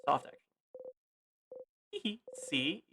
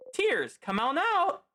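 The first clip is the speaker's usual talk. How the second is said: higher, slow pleading command; coaxing tears to come, higher and slow; strained urging; 11 semitones higher, slower than usual. Acted. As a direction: beg the tears out, drawn out. Forcing herself to cry.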